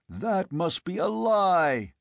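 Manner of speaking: forceful denial. A narrator's reading. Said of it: "said Conan".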